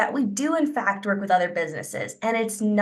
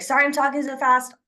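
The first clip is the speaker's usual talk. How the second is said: apologetic; 5 semitones higher than usual. Shown as a demonstration.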